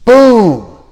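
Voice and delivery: loud, high cheering of a right answer; teacher cheers a student's instant answer; excited praise. Real, not acted. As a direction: celebrate the answer like a goal.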